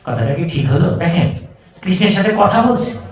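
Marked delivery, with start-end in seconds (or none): 0.0-0.9 laughing. Retold or imitated. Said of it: "Arjun মিশ্র হেসে দিয়েছে".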